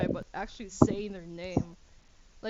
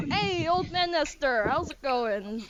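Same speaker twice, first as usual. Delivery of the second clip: higher cheerful hello; friendly greeting; 6 semitones higher, 5 dB louder than usual. Acted. Darius greets old man Nestor, higher cheerful voice. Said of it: "He's like".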